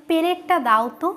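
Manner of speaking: "প্লেটটা" said as "pe-let-ta", extra vowel after p; colloquial pronunciation. Retold or imitated. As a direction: imitate everyday speech, splitting the pl of "প্লেটটা" into pe-le. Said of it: "অনেক সময় অনেকে".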